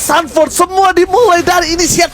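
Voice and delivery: shouting the wipe-out call; excited shout. Acted. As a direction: hype it up, caster style. Live esports play-by-play.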